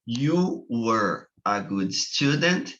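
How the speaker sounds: slow, careful model sentence; slow demo. Shown as a demonstration. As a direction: say it slowly for the class. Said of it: "duas maneiras de se falar".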